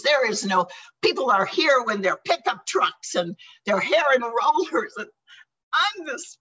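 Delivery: half-shouted rant down the phone to the sponsor; retold scream. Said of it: "used to call my sponsor and scream".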